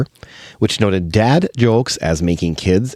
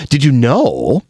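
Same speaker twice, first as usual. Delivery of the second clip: Cliff Clavin; 4 semitones higher, 4 dB louder, much slower than usual. Acted. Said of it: "my best Cliff Clavin".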